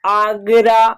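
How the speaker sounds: आगरा with open 'aa' at both ends; long AA in Agra. Shown as a demonstration. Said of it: "आ का उच्चारण हो रहा है". (आगरा में साफ़ लंबा आ)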